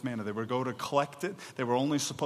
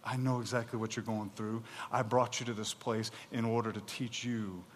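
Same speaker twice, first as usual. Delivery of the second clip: tender; 5 semitones lower, 8 dB quieter than usual. Acted. God's tender reassurance.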